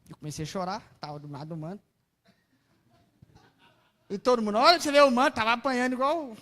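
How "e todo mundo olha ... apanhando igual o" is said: laughing aside. Real, not acted. Laughing at herself crying.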